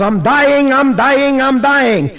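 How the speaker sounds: loud high mock wail; hollering. Old lady on the drugstore floor hollering, loud, high and hammed-up. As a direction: ham up a dramatic deathbed holler. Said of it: "she hollers".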